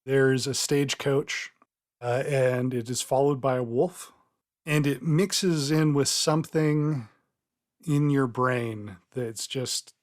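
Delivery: measured storytelling with suspenseful pauses; game master narration. Acted. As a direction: draw the player into the vision. Game master sets the scene.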